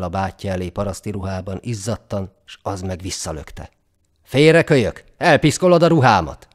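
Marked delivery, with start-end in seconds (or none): 4.2-6.5 hangos, magasabb, lenéző rivallás; lökd félre szavakkal, undorodva; durva rárivallás. A narrator's reading. A gőgös báty ellöki öccsét. (gőgös, hangos elutasítás)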